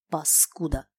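usual speaking voice

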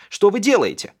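high, loud protest; alarmed cry. A narrator's reading. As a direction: cry out at intruders, pitched well up. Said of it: "закричала". (возмущённый, испуганный крик)

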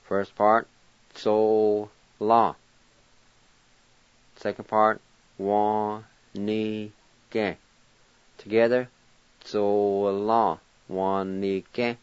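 "zo la, wa, ni, ke" said syllable by syllable; syllable demo. Shown as a demonstration. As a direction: break "zo, la, wa, ni, ke" into parts. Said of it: "It's pronounced like this".

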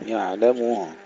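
"يعلمه" with a full u on م and audible final ه; clear damma and ha. Shown as a demonstration. Teacher drills the verse word, clearly realised damma and ha. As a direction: round the م, then sound the ه in "يعلمه". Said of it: "تحقيق ضمة الميم ثم تحقيق الهاء".

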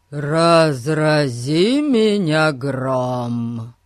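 slow, loud, amazed outburst; astonished exclamation. Acted. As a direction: drag out the shock. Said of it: "тараща глаза, воскликнул Эрн".

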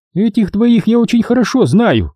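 lightly voiced stern headmistress; proclaiming. A narrator's reading. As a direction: announce it like a strict mistress. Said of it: "провозгласила Обин".

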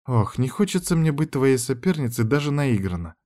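plain reading voice

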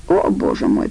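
breathy groan without voice; whispered mock groan. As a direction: moan it in dismay. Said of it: "простонал тот".

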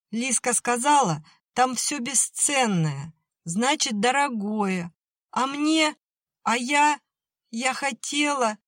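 high voice rising and cracking into tears; breaking into sobs. A narrator's reading. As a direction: let the words drown in crying.

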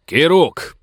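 sudden high, loud call of a name; shout. Acted. Sheriff calling after the fleeing rider, shouting. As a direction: yell the name to stop the rider. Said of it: "крикнул шериф".

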